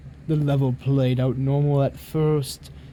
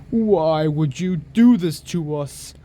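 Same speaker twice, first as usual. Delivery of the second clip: hammy stage actor; 3 dB louder than usual. Acted. Ominous in-game message read out.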